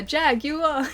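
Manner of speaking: calling out Jaguar. Retold or imitated. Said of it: "like she's calling it".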